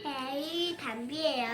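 soft, slow first greeting; quiet intro. Real, not acted. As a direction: say the name softly and slowly. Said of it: "아니, 다시 하자".

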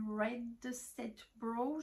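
English product name in a French accent, drawn out slowly; accent français en anglais. Real, not acted. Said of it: "mon accent pourri en anglais". (accent français hésitant sur l'anglais)

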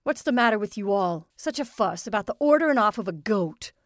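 loud exasperated outburst; angry outburst. Acted. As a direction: burst out in irritation. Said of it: "Doan burst out".

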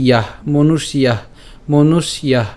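"মনুষ্যাহ" slowly, ending in i-yah; pronunciation demo. Shown as a demonstration. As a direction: sound out "ইয়াহ", then "মনুষ্যাহ" with a final h. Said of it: "তো উচ্চারণটা কেমন হচ্ছে?". ("মনুষ্যাহ" শেষে ইয়াহ ধ্বনিতে ধীরে উচ্চারণ)

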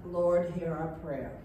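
calm, even model of the congregation's reply; prayer response. Shown as a demonstration. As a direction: show the people how to answer. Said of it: "Please respond".

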